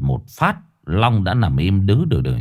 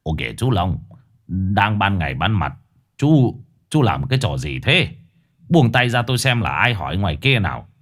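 village chief; 3 semitones lower than usual. Acted. Village chief scolds Long.

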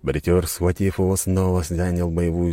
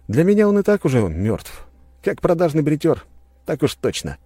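hero's verdict; 10 semitones higher, 4 dB louder than usual. A narrator's reading. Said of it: "произнёс я вслух".

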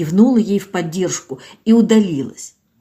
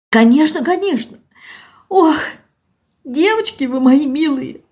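put-on higher, plaintive old woman pleading; tearful old village woman; 8 semitones higher than usual. Old Zinaida to doctor Olga, plaintive and tearful. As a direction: voice an old woman close to tears.

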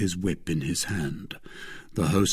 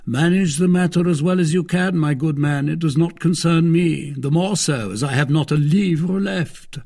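loud, high, lordly dismissal; imperious Athos; 9 semitones higher, 6 dB louder than usual. Acted. Athos leaving the money problem to the host, imperiously. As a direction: brush off the excuse grandly.

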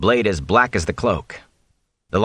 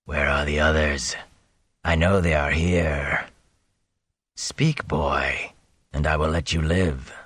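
low, soft, icy menace; slow cold demand from something inhuman; cold monstrous voice; 5 semitones lower, 4 dB quieter than usual. A narrator's reading. The Fade interrogating Rand about his friends, icy and low. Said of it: "The voice made Bornhald's seem warm".

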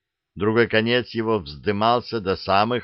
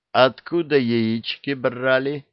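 ordinary delivery

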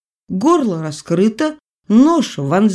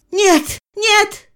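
much higher repeated cries; mother keeps refusing the doctor, much higher; 3 dB louder than usual. A narrator's reading. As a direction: fling out each no, rising higher.

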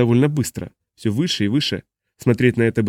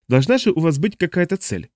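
pressing alien; 7 semitones higher than usual. A narrator's reading.

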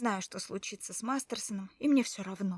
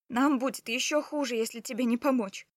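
pleading shout; 2 semitones higher, 7 dB louder than usual. A narrator's reading. Wife arguing with wounded husband.

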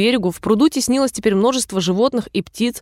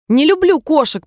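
shrill squeak; 6 semitones higher, 3 dB louder than usual. A narrator's reading. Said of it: "пронзительно пропищала мышь".

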